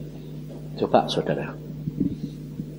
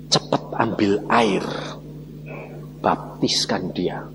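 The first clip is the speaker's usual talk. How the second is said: God's voice; 10 semitones lower, 9 dB quieter, slower than usual. Retold or imitated. God's voice speaking urgently.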